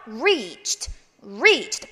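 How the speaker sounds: slow "reached" in one syllable, airy "cht"; voiceless "-cht" ending. Shown as a demonstration. Teacher modelling the word, crisp voiceless ending. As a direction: say "reached" with the T as air only. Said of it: "이렇게 읽습니다".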